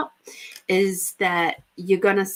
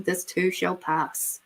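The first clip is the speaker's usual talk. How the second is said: soothing saying; 4 dB quieter, slower than usual. Shown as a demonstration. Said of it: "there's that good old saying".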